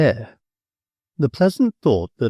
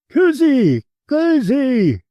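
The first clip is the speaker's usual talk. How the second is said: high, loud impatient call; 14 semitones higher, 4 dB louder, slower than usual. A narrator's reading. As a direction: shout down the passage for her. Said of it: "he called out impatiently".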